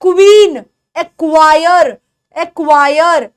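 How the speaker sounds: क्वीन and एक्वायर said loudly with a clear kw glide; stressed kw. Shown as a demonstration. Teacher drilling the क्व sound. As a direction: lean into the क्व at the start. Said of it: "क्व की sound होती है".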